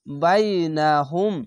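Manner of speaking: বাইনাহুম chanted slowly, vowels drawn long; Quranic recitation. Shown as a demonstration. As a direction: recite slowly, stretching each syllable. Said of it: "বা ইয়ে জবর বাই". (ধীরে টেনে তিলাওয়াত)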